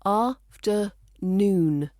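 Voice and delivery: afternoon, slow, with the weight on the final noon; drawn out slowly, land firmly on noon; stress on final syllable. Shown as a demonstration. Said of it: "We tend to stress the final syllable".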